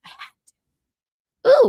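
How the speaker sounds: very high, slow drawn-out squeal. Acted. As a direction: stretch it out in a silly high squeak. Playful squeal after whisper.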